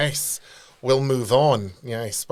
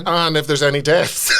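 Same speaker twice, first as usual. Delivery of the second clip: laughing shout. Real, not acted. Host joking that the celebrant could do funerals, laughing. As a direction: blurt the punchline while laughing.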